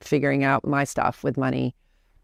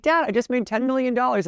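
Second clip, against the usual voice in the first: mock proud daughter; 8 semitones higher than usual. Telling dad big news.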